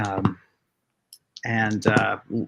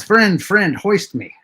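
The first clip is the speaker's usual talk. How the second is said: NPC asking to be lifted; 7 semitones higher, 4 dB louder than usual. Acted. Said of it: "He says".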